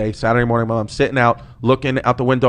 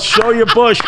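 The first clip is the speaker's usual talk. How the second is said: laughing, much higher, slow mock shout; retold yell; 9 semitones higher, slower than usual. Son retells dad heckling the ballet instructor, laughing shout. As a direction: belt it out while cracking up. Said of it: "And he yelled".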